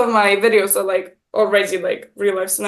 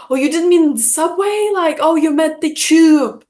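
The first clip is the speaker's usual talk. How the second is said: imitating his puzzled realization, higher pitched; confused; 6 semitones higher, 3 dB louder than usual. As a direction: act out his confusion, voice lifted. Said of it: "more confused".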